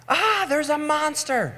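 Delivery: put-on very high, slow, frightened child voice; scared little kid. Child runs to parents at night, very high and scared. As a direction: play a terrified child.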